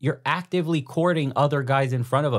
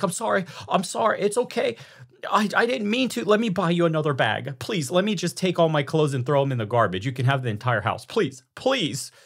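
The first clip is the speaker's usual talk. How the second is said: much higher, pleading, simpering voice; mock groveling husband; 7 semitones higher than usual. Husband begging his angry wife, in a high groveling voice. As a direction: beg like a whipped husband.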